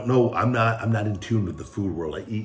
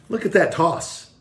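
much higher, louder and slow; proud show-off; 10 semitones higher, 6 dB louder than usual. Real, not acted. Host showing off his toss to viewers, proudly. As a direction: savour the brag.

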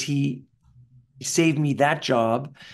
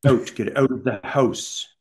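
put-on Canadian accent. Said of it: "they didn't like how Canadian I sounded".

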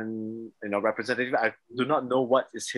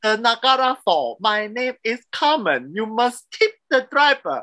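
imitating a New York tour guide's Asian accent, higher, louder and slow; 9 semitones higher, 5 dB louder, slower than usual. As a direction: ham up the Chinese tour guide, high, loud and slow. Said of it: "the tour guide was like".

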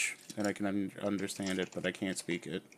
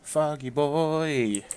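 slow, higher, louder hype; drawn out; 5 semitones higher, 5 dB louder, much slower than usual. Acted. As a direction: stretch it out proudly. Hyping the channel name.

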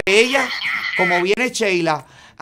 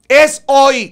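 louder mock yell of the message; shouted; 3 semitones higher, 7 dB louder than usual. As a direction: read the chat as a shout. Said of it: "le grita él". (grito fingido al leer el mensaje)

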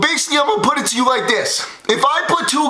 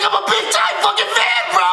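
imitating the kid; 7 semitones higher than usual. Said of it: "he's like".

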